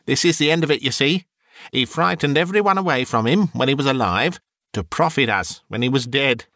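lightly voiced triumphant hag; gloating charwoman. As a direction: crow over the dead man's money. Woman gloats over the money.

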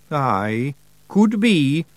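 high Scots pixie voice, slow and hopeful; a wee Scots pixie begging to keep a pet; Feagle voice. Acted. Feagle voice held.

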